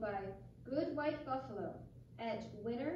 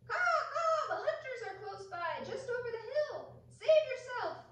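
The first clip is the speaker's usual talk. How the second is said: high cawing crow voice; crow cry; 14 semitones higher, 6 dB louder than usual. Acted. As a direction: call out like a warning crow. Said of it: "flapping his wings said".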